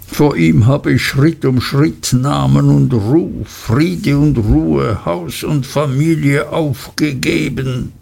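a lightly voiced weary old lawyer, slowing; a hint of a ruined man listing his losses; broken father. To his young friend, a mildly broken old lawyer. Wickfield accuses Uriah, broken.

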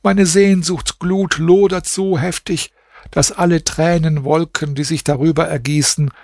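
lamenting verses. A narrator's reading. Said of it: "Dann sprach sie folgende Verse".

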